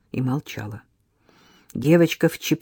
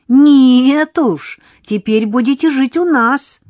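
much louder, higher insistence; girl declaring they'll stay with her; firm insist; 9 semitones higher, 9 dB louder, slower than usual. Acted. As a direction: lay down the law. Girl insisting firmly, loud.

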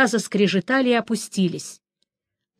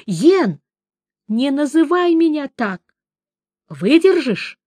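high, raised indignant retort; indignant cry; 5 semitones higher than usual. A narrator's reading. Sorceress snaps at the witcher over her nickname, high retort. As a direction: snap at him, voice up. Bickering while hanging.

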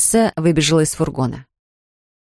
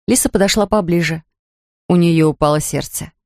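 usual speaking voice

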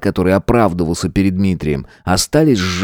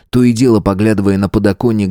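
plain reading voice

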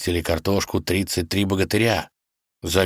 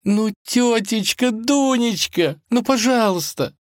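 much higher, slow, wheedling please; begging princess; pleading; slower than usual. Acted. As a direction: melt her heart. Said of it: "в надежде растопить доброе сердце".

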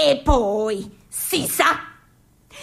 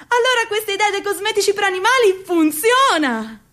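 excited; 5 semitones higher, faster than usual. Acted. Excited realization, faster.

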